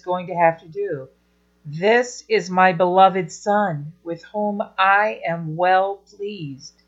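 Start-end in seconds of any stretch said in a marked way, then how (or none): 1.6-6.8 gentle God. Shown as a demonstration. Teacher voicing God gently, not like a machine. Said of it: "Make God not sound like some big machine".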